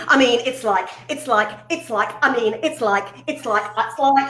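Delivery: lightly mimicked rambling, it's like over and over; mock her own nervous rambling; rambling filler words. Presenter mocking her old kids' TV self, rambling lightly. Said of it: "I heard myself going".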